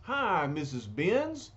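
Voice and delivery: streetwise bruiser, lightly voiced; rough, folksy big lug; gruff tough guy voice. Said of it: "he says".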